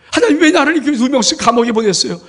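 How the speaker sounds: loud, high plea; Joseph's anguished cry. Acted. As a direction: cry out in pain to God. Joseph crying out again. (하나님께 높고 크게 부르짖는 요셉)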